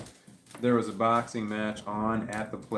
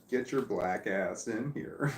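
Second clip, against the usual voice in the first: drawn-out, mild mock yell; slow retold yell; slower than usual. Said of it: "So I yelled out the door".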